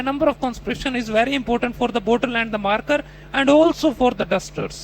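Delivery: slow, confident mock student bluffing; imitating the student's answer. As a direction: carry on fluently with nonsense, sure of yourself. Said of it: "उसने बोला".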